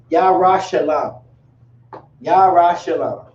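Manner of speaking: "Yara Shalom" said slowly, YAH-rah sha-LOM, falling at the end; slow classroom model of "Yara Shalom"; Yara Shalom pronounced. Shown as a demonstration. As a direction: spell out "Yara Shalom" slowly in sound for students. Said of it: "you would say".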